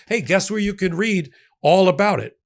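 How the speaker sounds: a light hint of a newsboy pitch; 1920s paper boy. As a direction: casually tease it like a street seller. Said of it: "I sound like a paper boy".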